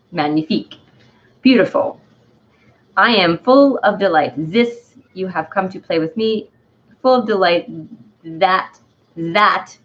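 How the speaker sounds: put-on hammy, halting French accent; put-on French accent, feeling out the words; Dandelion's French accent. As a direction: read it as a wacky French character. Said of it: "Dandelion as a French accent".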